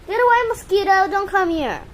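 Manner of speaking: high, loud get away; loud shooing. Real, not acted. Owner yelling at a mosquito buzzing near, loud. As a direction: chase the mosquito off with your voice.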